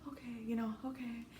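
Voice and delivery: small, soft mock-meek okay; retold quiet surrender to motherly comfort; soothed acceptance. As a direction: softly give in, as if comforted. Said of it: "you feel this, like".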